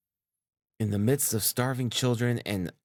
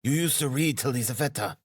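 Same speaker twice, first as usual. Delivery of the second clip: raised, pressing tone; insistent; 6 semitones higher, 3 dB louder than usual. A narrator's reading. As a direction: keep pushing, pitched high and urgent. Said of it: "he persisted".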